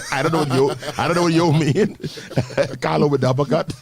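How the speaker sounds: laughing through the words; words broken by laughter. Real, not acted. Laughing while quoting.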